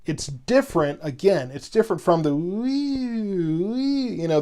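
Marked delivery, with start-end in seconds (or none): 2.4-4.1 a light, rising imitation of a wailing siren, the wee, wee going up; mock siren wee. Radio host imitating a fire engine siren for a caller, mock wail. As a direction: mimic the up-and-down siren wail casually. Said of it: "the up and down".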